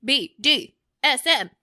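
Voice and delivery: loud peppy cheer, spelled out; cheerleader voice. Acted. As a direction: shout it like a cheerleader. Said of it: "What the fuck was that?".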